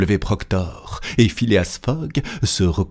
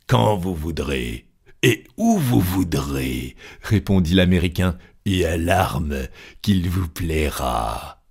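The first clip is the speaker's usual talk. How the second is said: colonel accepting the duel. Acted.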